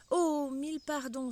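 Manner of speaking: s'écrier vivement, plus haut et plus fort; Alice s'excuse en hâte, plus haut; vive exclamation. Acted. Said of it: "s'écria vivement Alice". (exclamation vive et pressée)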